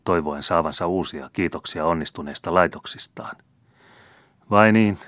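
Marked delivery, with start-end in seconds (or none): 4.5-5.0 loud scornful scoff, a bit higher; contemptuous. A narrator's reading. The young count scoffs at the gardener, contemptuous and loud. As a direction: sneer it down at the old gardener.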